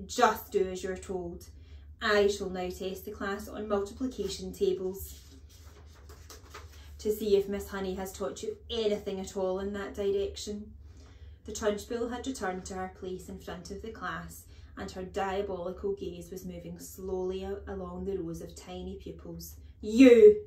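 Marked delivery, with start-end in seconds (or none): 0.1-10.7 louder, commanding headmistress voice; bossy headmistress. Acted. Headmistress announcing a class test, commanding. 19.8-20.4 very loud, abrupt bark. A narrator's reading. Headmistress pointing at small boy, barking. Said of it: "she barked".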